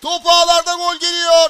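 roaring goal call, voice rising; screaming football commentator. Real, not acted. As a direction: shout the goal at full power. Goal scored, live call.

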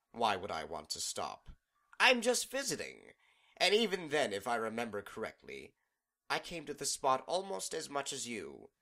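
sly mocking villain voice; taunting villain. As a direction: tease her, playful then rising. Discord taunts Celestia.

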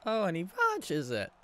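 high-pitched, exclaiming play-by-play call; playful imitation of a hockey commentator; mock commentator catchphrase. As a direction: relish it like an excited sportscaster. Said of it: "Can't wait to say that more".

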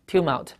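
tumult with TU- stressed; stress on first syllable. Shown as a demonstration. Teacher pointing students to the front of the word, tumult stressed on TU-. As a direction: hit the opening syllable of tumult. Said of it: "注意最前面".

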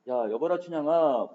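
mild mock holler to get attention; calling out. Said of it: "소리를 질러갖고".

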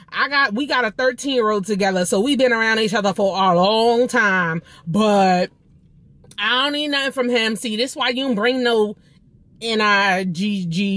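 mock LA hood voice, stretching words toward the end; imitated hood Los Angeles accent. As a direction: play her with a Los Angeles hood accent, starting high. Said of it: "Los Angeles accent".

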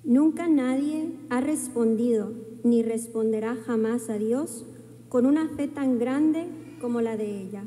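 ordinary talk, nothing marked

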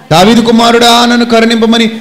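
high, sustained loud cry; shouting on. Retold or imitated. Blind beggar refusing to be hushed, shouting. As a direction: keep crying out high over the rebukes. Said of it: "ఇంకా అరుస్తున్నాడు".

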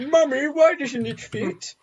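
slow, mock-childish question to Mummy; puzzled little kid. Kid asking Mummy about the peg, lightly imitated child. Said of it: "I'm that kid who".

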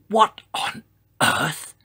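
high, slow, puzzled question; wondering. A narrator's reading. Mother dinosaur feels the ground shake, wondering. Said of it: "she wondered".

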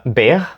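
"Big" with h for the final g; mispronounced BIG. Shown as a demonstration. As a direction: say "Big" as if it ended in h. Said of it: "але звучить не дуже".

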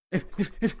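scared horror game streamer. Real, not acted. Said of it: "how terrified I am".

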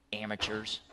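low, soft scornful mutter; muttered under breath. Retold or imitated. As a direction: mutter it to yourself, unimpressed.

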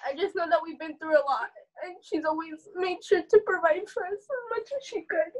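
tearful, voice lifting as it goes on; real choked-up sincerity; holding back tears. Real, not acted. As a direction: push through the urge to cry. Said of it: "I'm trying not to cry".

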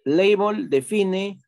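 slow, careful "Label define" for the class; slow dictation. Shown as a demonstration. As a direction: dictate "Label define" word by word for students to copy. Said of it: "label espacio define".

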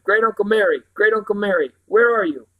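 high, loud shouted call; loud, high call into the night; calling into the wind. Acted. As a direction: shout for him over the wind. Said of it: "Simon called into the growing wind".

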